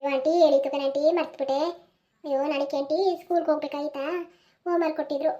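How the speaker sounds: put-on meek teenage girl making excuses; sheepish girl. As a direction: shrink under the aunt's questions. Girl answering aunt sheepishly.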